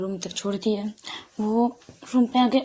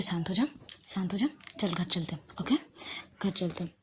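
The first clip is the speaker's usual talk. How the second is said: softer, mildly soothing voice; calming; 2 semitones lower, 5 dB quieter than usual. Acted. Shruti calming Ahana to take her home, gently soothing. Friend calms upset girl, takes her home.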